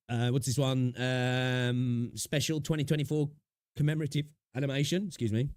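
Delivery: talking through hiccups; hiccuping between words. Real, not acted. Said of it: "Got the hiccups".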